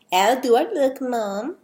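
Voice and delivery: put-on hammy amateur Dutch accent; attempted Dutch accent. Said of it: "sorry for my awful accent".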